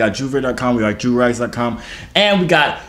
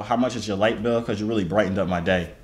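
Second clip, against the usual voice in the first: soft smooth pickup line; 5 semitones lower, 6 dB quieter than usual. Acted. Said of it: "Hold on, restart".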